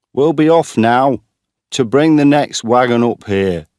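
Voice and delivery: loud, high call across the field; father calling up from below, loudly. A narrator's reading. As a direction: shout it up to the stack.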